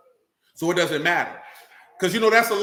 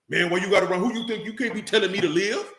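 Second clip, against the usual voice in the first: imitating an upset, defensive brother; mock offended comeback; mock defensive retort. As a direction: throw it back like you've been checked. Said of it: "That's how you sound when somebody checking you".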